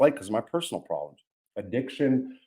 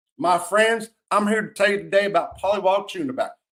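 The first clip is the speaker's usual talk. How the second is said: put-on Southern American accent, pitched up; 7 semitones higher than usual. Retelling giving a class presentation, in a Southern accent. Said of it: "I did it with a Southern accent".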